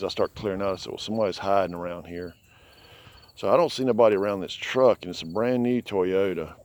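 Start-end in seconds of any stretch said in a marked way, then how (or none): none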